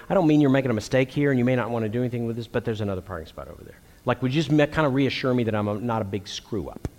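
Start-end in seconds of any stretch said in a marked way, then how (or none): 0.1-3.8 fast reassuring example. Retold or imitated. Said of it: "it would actually help me if you'd say".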